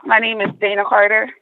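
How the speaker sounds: breathless from walking to the car; winded, catching breath between phrases. Real, not acted. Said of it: "Excuse me being out of breath".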